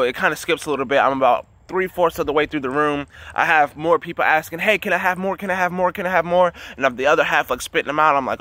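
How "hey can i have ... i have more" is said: higher, insistent pleading, imitated; repeated begging on a raised pitch; eager begging. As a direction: mimic a crowd pestering for seconds. Many people begging for more.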